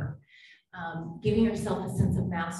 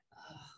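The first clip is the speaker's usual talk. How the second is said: weary ugh; 22 dB quieter than usual. Retold or imitated. Reacting to everything seeming the worst.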